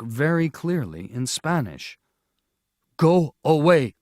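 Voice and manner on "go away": stern order. A narrator's reading. Villager orders them to leave.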